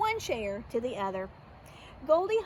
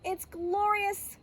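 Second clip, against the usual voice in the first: high, slow singsong delight; 5 semitones higher, slower than usual. Acted. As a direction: let it float up, drawn out. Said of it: "Goldie sang".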